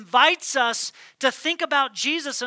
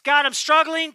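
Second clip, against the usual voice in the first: pleading cry; 3 semitones higher, 4 dB louder than usual. Pretend. Believer cries out to God.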